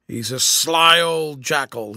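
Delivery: put-on slow, loud, rough-edged old corporal; slow knowing growl of a tramp; gruff old soldier. A narrator's reading. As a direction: growl it out like a sly old trooper. Corporal voiced in story.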